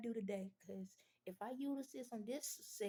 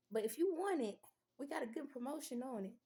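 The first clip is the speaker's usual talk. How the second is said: pushy pitch; 3 semitones higher, 5 dB louder than usual. Retold or imitated. Closing the sale pitch.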